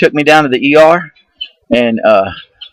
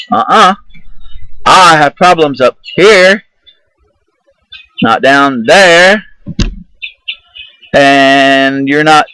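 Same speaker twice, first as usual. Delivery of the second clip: slow, louder, dug-in no; stubborn refusal; 3 semitones higher, 4 dB louder, slower than usual. Retold or imitated. Refusing the nurse's gown, a slow, louder stubborn no. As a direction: plant your feet and refuse each word.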